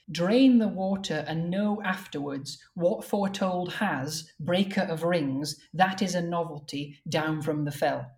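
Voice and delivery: slow, measured verse reading; verse recital. Shown as a demonstration. Translator showing the word-for-word version, measured recital. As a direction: read out the stanza with deliberate pacing.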